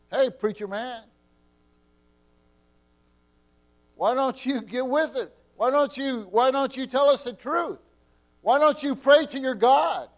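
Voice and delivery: taunting preacher. Retold or imitated. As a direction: jeer at the preacher like a scoffer. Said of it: "someone coming to me and saying".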